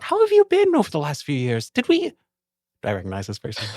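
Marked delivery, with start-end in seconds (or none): 0.0-2.2 high, bright-pitched noble officer, pleased; lieutenant character voice. Acted. The lieutenant to the guard, high and gracious.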